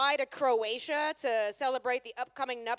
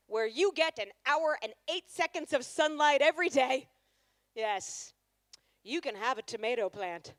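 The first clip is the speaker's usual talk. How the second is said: landscaper's grave news. Retold or imitated. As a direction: deliver it like tragic news, milking each yes. Landscaper delivering news to couple.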